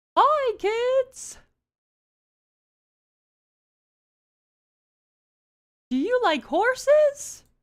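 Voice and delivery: voice going way up into cartoon pitch. Trying a cartoon voice that hides a sick nasal sound, Mickey Mouse voice. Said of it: "How about Mickey Mouse? ... with this voice".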